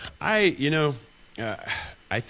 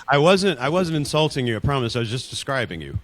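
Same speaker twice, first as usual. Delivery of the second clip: higher, louder, mock-innocent promise, easing to plain by the end; mock polite denial; 4 semitones higher, 5 dB louder than usual. Local mocking a fool, in a sweet, innocent voice. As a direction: play it sweetly innocent while twisting the knife. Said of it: "Here's how, here's how we say it over here".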